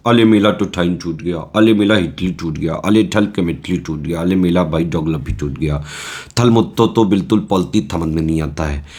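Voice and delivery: put-on lisping babyish whine of a student who gave up; mock baby talk. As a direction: play a crybaby toddler complaining, lightly. Mocking a whiny despairing student.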